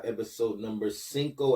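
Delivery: cinco said the Spanish way, sink-oh; Spanish number. Shown as a demonstration. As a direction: drop in the Spanish word cinco. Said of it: "That's how you say it in French".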